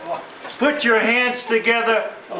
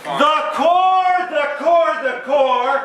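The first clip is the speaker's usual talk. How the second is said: rallying cry; 5 semitones higher than usual. Acted. Toast speech, repeated rallying cry.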